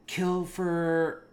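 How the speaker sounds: imitated rallying cry. Tommy showing up among panicking people, imitated rallying cry. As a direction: imitate a man rousing a crowd.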